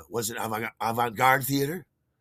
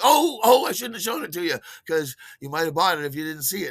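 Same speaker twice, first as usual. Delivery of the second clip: mock regret; 6 semitones higher, 6 dB louder than usual. Mock regret after a lost sale.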